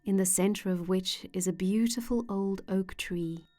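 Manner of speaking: calm, measured meditation voice with long pauses; unhurried guided-imagery narration, phrase by phrase. Acted. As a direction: gently guide the listener into relaxation.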